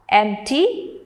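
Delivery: "Empty" with the weight on EMP; stress on first syllable. Shown as a demonstration. Teacher reading words to students, "Empty" stressed on EMP. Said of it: "stress on the first syllable are".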